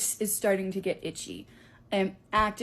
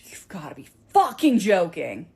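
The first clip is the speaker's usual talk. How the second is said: stunned whisper; 7 dB louder than usual. Retold or imitated. Teacher sees bee sting.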